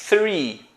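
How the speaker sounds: three with a blown th, tongue near the teeth; "three" demonstrated with English TH. Shown as a demonstration. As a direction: model "three" carefully with an airy th. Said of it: "com a língua bem próxima dos dentes".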